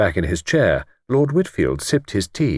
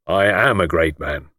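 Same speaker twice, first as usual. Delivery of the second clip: simply; 3 semitones lower than usual. Acted. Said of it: "replied simply".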